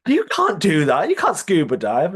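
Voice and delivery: a retold gasp of disbelief at a list of skills; mock shocked outburst. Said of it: "And she was like".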